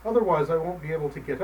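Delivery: put-on sick old man pleading; sad pleading. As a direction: plead sadly with the cat. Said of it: "sadly repeated the old man".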